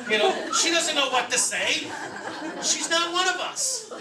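laughing mid-sentence at the mom bit. Real, not acted. Laughing through his comment.

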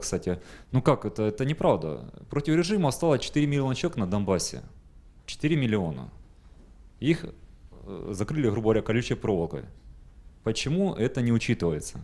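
ordinary delivery

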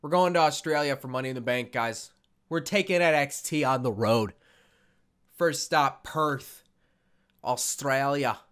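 loud, badly faked Aussie accent; awful Australian accent. Gamer announcing the tour to viewers, bad Australian accent. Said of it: "That's an awful accent".

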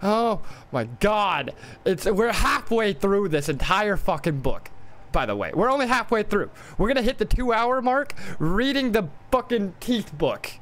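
high-pitched, drawn-out disbelief; exasperated. Real, not acted. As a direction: groan about it in a high, strained complaint. Realizes only halfway through the book.

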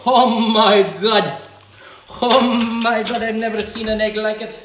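loud, slow, drawn-out astonishment; stunned delight at the pan; amazed. Real, not acted. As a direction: stretch it out like you can't believe the egg. Amazed at the frying egg.

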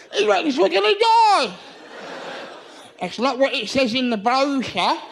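slow, put-on cow voice. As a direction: cows chatting slowly.

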